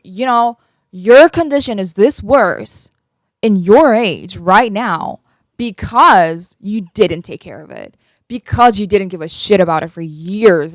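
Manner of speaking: imitated scolding, hard emphasis on key words; frustrated doctor. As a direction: lecture the patient like an exasperated doctor. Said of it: "she was so frustrated with me".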